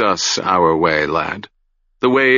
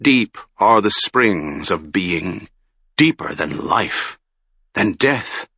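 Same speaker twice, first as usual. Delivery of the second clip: changed voice. Acted. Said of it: "went on in a changed voice".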